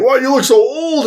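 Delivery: high, nagging mock question; mock worried voice. People asking Tim Allen, high mock-worried voice. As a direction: squeak it out in fake concern. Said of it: "everybody's like".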